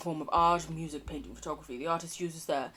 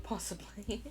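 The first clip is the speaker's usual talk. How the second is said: whispered; 2 semitones higher, 10 dB quieter than usual. Real, not acted. Whispered cheese aside.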